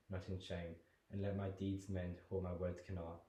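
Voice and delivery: guilty prayer. Acted. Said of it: "His voice alters from guilt and sorrow".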